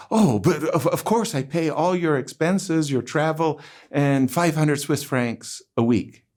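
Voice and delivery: hurriedly blurting out a generous offer; blurted offer. Retold or imitated. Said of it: "he quickly blurted out".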